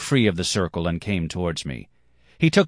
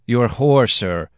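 higher, loud challenge; indignant demand; 6 semitones higher, 6 dB louder, slower than usual. A narrator's reading. Boy challenges the man insulting Bianca, indignant demand. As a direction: demand it in affront. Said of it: "I demanded".

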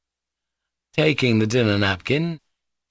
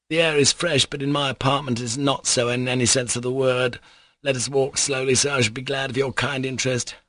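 higher-pitched, fussy politeness; courteous captain; 5 semitones higher than usual. Acted. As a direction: voluble man being ceremonious. Captain talking outdoors to Alyosha.

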